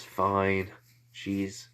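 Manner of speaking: sulky mutter. Acted. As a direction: sulk like a scolded kid.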